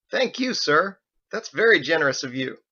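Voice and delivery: bow and thank him loudly; grateful bellboy. Acted. Bellboy thanking the old man for his tip, eager.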